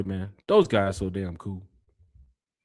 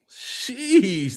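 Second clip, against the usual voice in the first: sheesh; 8 semitones higher than usual. Real, not acted. Reacting to a tough comment.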